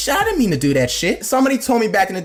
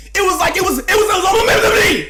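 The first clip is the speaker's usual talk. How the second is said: way higher and louder, fast; excited high shout; 12 semitones higher, 3 dB louder, faster than usual. Real, not acted. Telling the audience it was meant to be, high excited shout. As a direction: rush it out, amazed. Hyped about fate.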